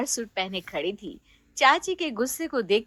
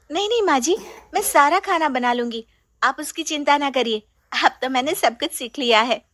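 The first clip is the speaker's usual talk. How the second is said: eager bride; 3 semitones higher, faster than usual. Acted. Sheena eager to cook.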